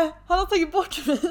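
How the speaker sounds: high, loud, half laughing, half crying; giggling mock horror; laughing dismay. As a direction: laugh through mock despair. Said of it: "jag bara".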